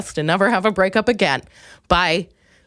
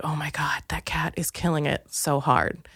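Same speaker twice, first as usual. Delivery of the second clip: hushed, slow awed whisper; 6 semitones lower, 8 dB quieter than usual. Retold or imitated. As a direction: breathe it out in secret admiration. Awed whispered thought about cat.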